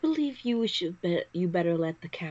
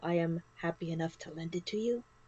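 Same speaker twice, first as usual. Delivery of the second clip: whispered in character, quieter; 6 dB quieter than usual. Voicing a character who leans in and offers gold: whispering in character. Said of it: "she actually whispers this to Belle".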